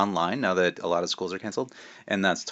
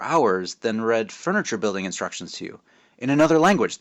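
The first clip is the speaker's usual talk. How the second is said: put-on lively read-aloud narration for kids; story reading; 3 dB louder than usual. A narrator's reading. Author reading his book aloud to schoolkids. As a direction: tell it like a storyteller to a class.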